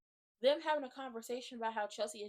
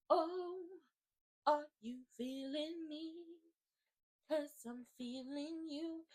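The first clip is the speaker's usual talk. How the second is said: slow, drawn-out flirtation; coy, lingering come-on with pauses; flirty; 3 semitones higher, 3 dB quieter, much slower than usual. Retold or imitated. Chelsea responding to the kiss, flirty.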